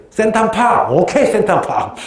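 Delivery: light mock Thai local getting it; excited recognition. Thai local finally recognizing Central Park, excited. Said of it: "나중에 한 사람이".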